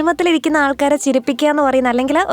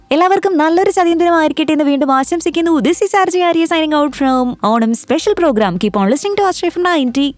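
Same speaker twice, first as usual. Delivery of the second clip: slightly lifted radio announcer delivery; radio sign-off; 3 semitones higher than usual. Real, not acted. RJ closing the Onam special for listeners, radio sign-off. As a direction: sign off the show like a radio jockey.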